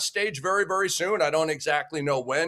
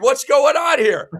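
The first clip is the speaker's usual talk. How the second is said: sarcastic; 8 semitones higher, 7 dB louder than usual. Acted. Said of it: "I'm just being sarcastic".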